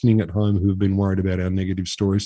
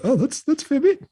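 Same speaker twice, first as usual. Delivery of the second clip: mock understatement. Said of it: "You're like".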